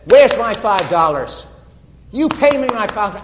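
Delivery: loud, high angry shout for the money; shouting down a fellow servant over five dollars; angry demand. Acted. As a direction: bark at the debtor, furious.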